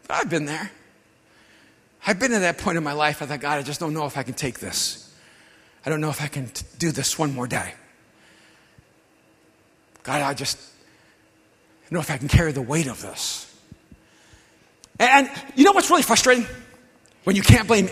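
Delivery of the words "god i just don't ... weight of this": hushed, heavy plea to God; quietly crushed, barely getting it out; despairing prayer. Retold or imitated. A broken man praying alone, hushed and despairing.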